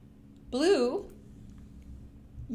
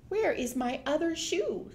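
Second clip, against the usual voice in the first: daughter; 5 semitones higher than usual. Acted. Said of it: "said the daughter".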